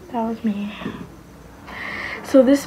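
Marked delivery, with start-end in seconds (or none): 0.1-0.7 whispered disbelief. Real, not acted. Seeing her baby photo.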